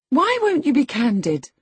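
high, loud demand; indignant cry. A narrator's reading. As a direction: cry it out as a challenge. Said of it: "cried Catherine".

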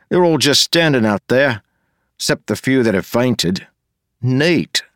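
put-on high, loud, eager young man; excited young man voice. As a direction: bounce it out, pleased and nosy.

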